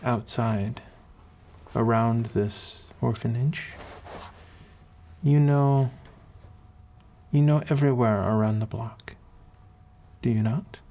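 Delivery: a hint of an accented matron; kindly accented mentor. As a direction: counsel a child with long, considered pauses. Voices the accented woman mentor.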